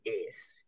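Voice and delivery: "ace" said slowly, a New York way of saying ass; New York pronunciation. Shown as a demonstration. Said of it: "instead of someone saying ass".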